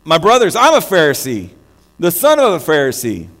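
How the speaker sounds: a loud declaration to the whole council; calling out. Acted. Paul calls out to the divided council, loud and proud. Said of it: "he called out in Sanhedrin".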